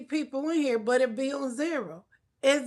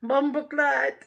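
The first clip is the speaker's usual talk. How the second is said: Jamaican swear. Pretend. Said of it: "speak Jamaican".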